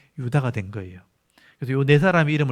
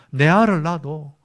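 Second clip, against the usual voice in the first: a light Gyeongsang dialect demand, first line punched out; mock Rachel nagging in a light Gyeongsang accent; 경상도 사투리로 가볍게 흉내 낸 조르는 말투. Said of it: "경상도 말로".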